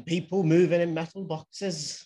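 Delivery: lightly put-on Welsh accent. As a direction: try a little Welsh lilt. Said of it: "That was my Welsh accent".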